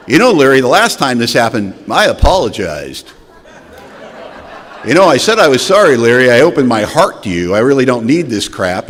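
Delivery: loud, half-laughing indignant protest; guilt-trip him with mock hurt; defiant rant. Drunk guilt-tripping his brother-in-law, loud mock indignation. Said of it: "I got right in his face".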